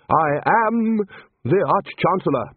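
high, emphatic self-important grumble; grumbling. A narrator's reading. Ridcully at the bathroom door, grumbling with authority. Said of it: "he grumbled".

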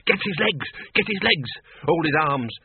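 high, urgent commands; urgent shouting. Acted. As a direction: bark orders as you rush in. Wizards storm in shouting.

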